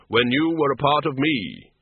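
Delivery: slow and grave, unhurried; Death's slow, measured voice. Acted. Death greets the tiny Death of Rats, slow and grave. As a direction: speak as a calm figure of Death.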